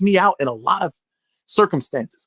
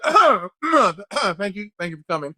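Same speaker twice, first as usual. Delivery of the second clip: awkward casting panel. Retold or imitated. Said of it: "the people auditioning was like".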